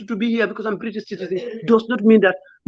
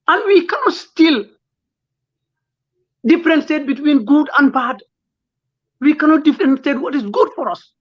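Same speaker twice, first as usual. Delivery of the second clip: tearful; 3 semitones higher than usual. Real, not acted. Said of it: "I'm sorry to be tearful".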